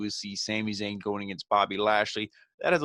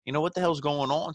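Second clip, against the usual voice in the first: higher, mock frantic plea to the ref; lightly hammed-up confusion, pitched up; retold exasperation; 6 semitones higher than usual. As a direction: act out the baffled wrestler wanting her gone. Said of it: "He's like".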